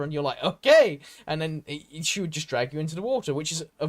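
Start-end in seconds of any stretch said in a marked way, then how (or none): 0.4-1.0 eager, louder mock "okay"; lightly acted lovestruck keenness; eager agreement. Man lured by a pretty woman, eagerly. Eager reply in retold scene.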